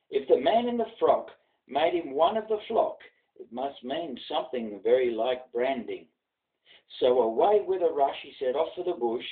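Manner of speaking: rhythmic bush ballad read aloud; a grandfather reciting a ballad for his grandson; poem recitation. A narrator's reading. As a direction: recite with a lilting storyteller's swing.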